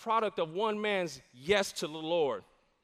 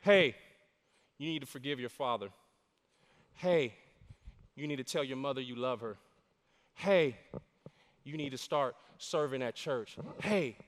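much softer, quick, intimate lines; hushed voice of the Spirit; 8 semitones lower, 6 dB quieter than usual. Acted. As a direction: hush it like a secret nudge. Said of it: "He is whispering to you right now".

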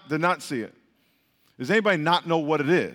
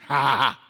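laugh; 5 semitones lower than usual. Real, not acted. Joking aside to the congregation.

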